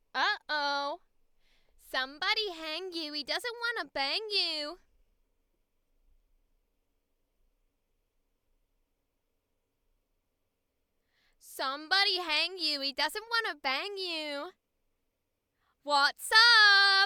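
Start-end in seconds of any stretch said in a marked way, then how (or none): 2.0-17.1 put-on nasal voice. Speaker introduces the voice for a character, then performs it: nasal Fran voice. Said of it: "It's nasally and it talks like this".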